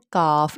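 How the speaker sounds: کاف with open "aa"; thin, unrounded کاف; light, thin letter. Shown as a demonstration. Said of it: "اس کو light باریک پڑھا جاتا ہے".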